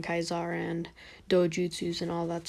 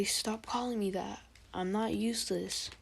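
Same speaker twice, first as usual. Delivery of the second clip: lightly voiced small boy protesting; a hint of a little boy; little kid Naruto; 3 semitones higher, 4 dB quieter than usual. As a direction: protest mildly in a put-on kid voice. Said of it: "trying to make a little kid voice".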